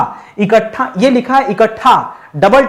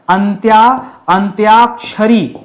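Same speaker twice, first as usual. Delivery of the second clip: slow dictation; slower than usual. Shown as a demonstration. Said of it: "ऐसे लिखा जाएगा".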